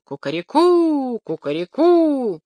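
high, slow crowing cry; rooster crowing. Acted. Rooster crowing from the church porch, slow and high. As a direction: crow it out like a rooster at full voice. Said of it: "принялся кричать, что было сил".

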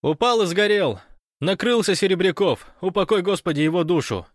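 high, loud breathless report; excited Fyodor on the phone. Acted. Fyodor reporting the invasion to Gosh by phone, excited. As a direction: rattle it off, caught up in the drama.

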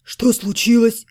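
a slow sleepy question; just woken up and confused. Acted. Отто wakes to the noise, asking sleepily. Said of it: "сонно спросил Отто".

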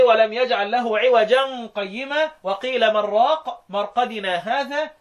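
slow recitation run straight through, no break after "عوجا"; slow recitation as the other reciters read it; recitation without pause. Shown as a demonstration. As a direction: recite all four places without any pause. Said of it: "يقولوا إيه؟".

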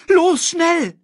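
high, loud urgent yell; panicked meerkat. Acted. Meerkat clinging to warthog's back, high urgent shout. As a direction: urge it out high and hurried.

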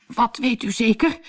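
put-on high, breathless old patient; anxious puffing question; panting. A narrator's reading. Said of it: "hijgde meneer Pantalon".

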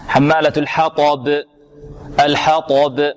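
slow الحطب with thin ح, heavy ط, bounced b; careful recitation demo. Shown as a demonstration. Teacher models the verse ending, careful recitation demo. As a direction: keep ح light and ط full in الحطب. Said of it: "مرققة".

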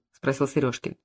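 usual speaking voice

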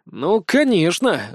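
slow, sighing "конечно" falling at the end; exasperated sigh. Acted. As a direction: drag out "Ну, конечно" wearily. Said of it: "вздохнул я". (медленно, со вздохом: «Ну, конечно!»)

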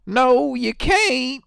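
loud, high, slow hillbilly retort; squawking hillbilly lady voice; hillbilly accent. Retold or imitated. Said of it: "mimicking his accent".

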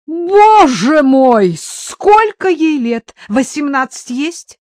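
loud, high, drawn-out wail; stretched, high-pitched lament; moaning in dismay. A narrator's reading. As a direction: wail slowly in horrified dismay. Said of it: "простонала Дуся".

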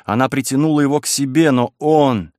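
usual speaking voice

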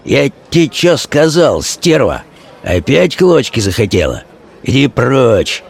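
slow, menacing hoarse voice; a thug driving off his girl; Vaska hoarse threat. Acted. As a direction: threaten her, slow and rough. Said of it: "хрипло проговорил".

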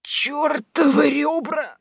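high, slow groaning curse; pained cry. A narrator's reading. Old woman hurting her ribs, pained outcry. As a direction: cry out through the pain. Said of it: "застонала".

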